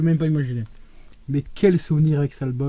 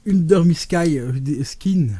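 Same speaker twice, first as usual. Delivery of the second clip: French-accented English; 2 semitones higher, 4 dB louder, slower than usual. Real, not acted. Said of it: "excuse-moi pour mon anglais".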